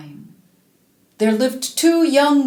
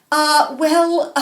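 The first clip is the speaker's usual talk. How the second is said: whispered mother; 5 semitones higher, 3 dB louder than usual. Acted. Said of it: "said the mother".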